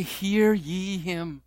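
very slow solemn proclamation; a hint of God speaking from the cloud. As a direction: draw each word out like a decree. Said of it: "What does God say?".

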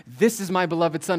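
God's announcement, lightly voiced; crying out. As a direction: proclaim it with a little extra force. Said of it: "the voice of God cry out".

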